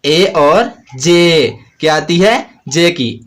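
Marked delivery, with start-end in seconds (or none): 0.0-1.5 slow spelling out. Shown as a demonstration. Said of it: "एज में हमें sound आती है".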